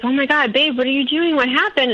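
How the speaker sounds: alarmed surprise. Retold or imitated. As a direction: imitate a startled boyfriend waking up. Boyfriend wakes to her packing.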